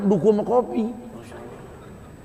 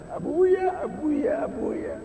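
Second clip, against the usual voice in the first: put-on high, eager little child calling Abuya; child calling father; 11 semitones higher, 5 dB quieter, much slower than usual. Child runs to greet returning father, high and eager. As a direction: call out like a small child greeting daddy.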